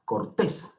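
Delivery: "Cortés" con fuerza en "tés"; acento en la última sílaba. Shown as a demonstration. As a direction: carga la voz en el final de "Cortés". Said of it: "la última sílaba acentuada". ("Cortés", acentuando la última sílaba)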